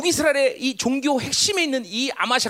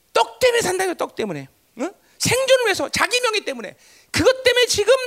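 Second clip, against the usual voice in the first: high, loud pulpit delivery; raised-voice sermon teaching; forceful preaching; 11 semitones higher, 5 dB louder than usual. Real, not acted. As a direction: preach it with urgent, punched questions.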